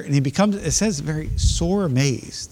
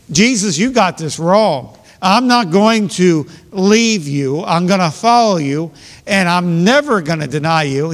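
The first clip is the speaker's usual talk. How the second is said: bold vow; 2 semitones higher, 4 dB louder than usual. Retold or imitated. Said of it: "He's speaking boldly".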